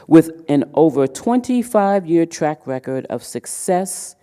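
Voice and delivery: emphatic speaker introduction read aloud; measured, projected read with punched phrases; formal bio reading. Real, not acted. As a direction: introduce an honoured guest to the room. Reads keynote speaker's bio.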